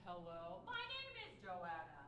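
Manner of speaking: a new tune, slow and deliberate; completely different melody. Shown as a demonstration. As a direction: coach demonstrating a fresh melody. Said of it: "let's do it completely different".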